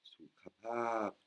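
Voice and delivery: "sukapap" slow, with breathy aspirated k and p; slow "sukapap" with clear puffs of air; aspirated h demo. Shown as a demonstration. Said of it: "les H qui sont le H inspiré".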